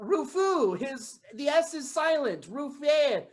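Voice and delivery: put-on French accent, halting; mock French parent introducing a child; hammed-up French-accented English. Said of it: "like we are all from France".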